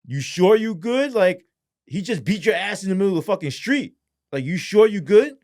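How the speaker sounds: high, emphatic disbelieving question; retold incredulity. Officer to beaten girlfriend, incredulous.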